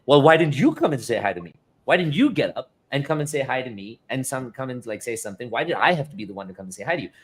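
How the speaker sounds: mild defensive comeback; defensive retort. Retold or imitated. Husband snaps back at wife, mildly defensive. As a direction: push back, a touch of indignation. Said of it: "immediately I got defensive".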